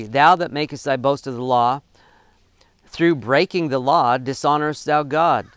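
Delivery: "dishonorest thou God" read flat and falling, not as a question; the question lands like a statement, pitch dropping at the end. Real, not acted. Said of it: "I should have said that like a question".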